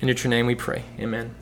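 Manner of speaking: earnest, unhurried public prayer. Real, not acted. Leads a prayer.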